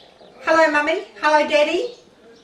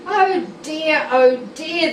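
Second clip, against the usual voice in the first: groaning; 4 semitones higher, 4 dB louder than usual. Acted. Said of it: "they groaned".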